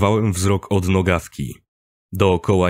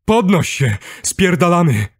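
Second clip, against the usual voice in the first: high, loud rousing shout; urgent yell; 10 semitones higher, 4 dB louder than usual. A narrator's reading. Man hauling up dazed narrator, urgent yelling. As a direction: yell to get him up and running. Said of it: "Wrzask stał się wyraźny".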